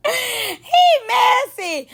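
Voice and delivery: drawn-out high squeal of a verdict; delighted shrieking remark; high slow laughing shout. Real, not acted. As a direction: belt it out between laughs. Laughing outburst.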